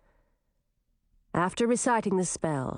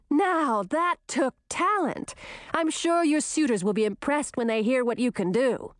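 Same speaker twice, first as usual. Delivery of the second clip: teasing; 5 semitones higher than usual. Acted. Grisina teasing her wet sister.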